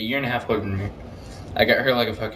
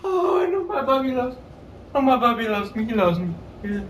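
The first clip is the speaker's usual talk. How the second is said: put-on high little-girl voice; delighted seven-year-old; 9 semitones higher than usual. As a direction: gush like a small child over a present. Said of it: "I gave the gumballs to Amber".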